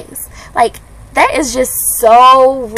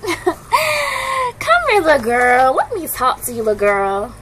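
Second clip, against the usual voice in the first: high calling out, then trailing softer; mock catcaller; 5 semitones higher, 3 dB quieter, slower than usual. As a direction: lightly imitate a guy calling a girl over. Imitating a man calling her.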